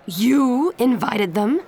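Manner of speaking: loud, slow disbelief; shocked shout. Acted. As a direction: shout it in outrage. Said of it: "Aunt Grace shouted".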